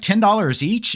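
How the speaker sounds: imitating kid. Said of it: "and they're like".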